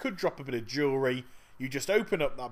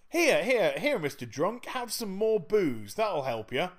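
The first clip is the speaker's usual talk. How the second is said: mock-helpful; 3 semitones higher than usual. Mock helper offering drunk booze.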